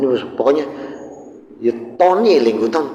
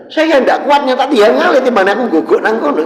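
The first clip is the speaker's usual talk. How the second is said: overcome with emotion; 10 semitones higher, 6 dB louder than usual. Retold or imitated. Emotional retelling.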